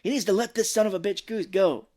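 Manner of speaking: acted commander losing patience; gruff retold order. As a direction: lay down the order forcefully.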